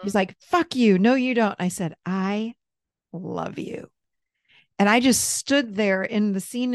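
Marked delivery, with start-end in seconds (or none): 0.4-1.6 higher, louder retold defiance; angry rejection. Angry child part rejecting the adult's love, angry rejection. 2.0-3.9 soft, steady retold reassurance; solid and grounded. Adult self answering her angry child part, solid and grounded. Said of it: "I was so solid and grounded".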